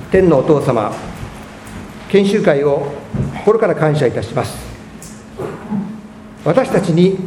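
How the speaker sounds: earnest congregational prayer; closing prayer. Acted. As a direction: pray it for the whole room.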